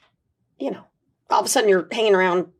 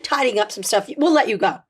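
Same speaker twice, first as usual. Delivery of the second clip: polite producer; 5 semitones higher than usual. Retold or imitated. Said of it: "She just said".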